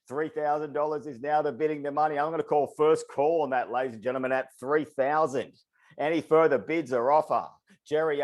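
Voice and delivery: rapid rhythmic auctioneer patter; auctioneer call. Acted. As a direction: keep the bids rolling like an auctioneer. Runs a live auction call.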